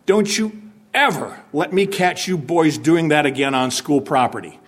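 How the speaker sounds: mock-stern principal scolding boys; a touch of a stern principal warning. Principal scolding boys caught on school property, mock stern. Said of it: "the principal saying to you".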